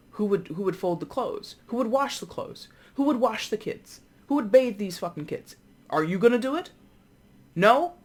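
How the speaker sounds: exasperated wife. Retold or imitated. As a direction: build a frazzled wife's rant up to a sharp No. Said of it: "she's kinda like".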